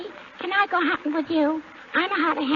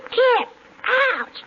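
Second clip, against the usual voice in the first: big loud kiss then an ouch; loud animal impersonation; 7 semitones higher, 4 dB louder than usual. Pretend. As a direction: punch the kiss, then yelp. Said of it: "can I do my animal impersonation".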